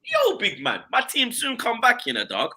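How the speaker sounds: quiet smug jab; mocking calm. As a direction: coolly wind up the rival. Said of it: "I'm like".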